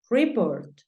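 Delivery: "Report" said "ree-port"; pronunciation model. Shown as a demonstration. Teacher reviewing homework words, "Report" as ree-port. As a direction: ee sound opening "Report". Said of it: "Te voy a pronunciar nuevamente las palabras".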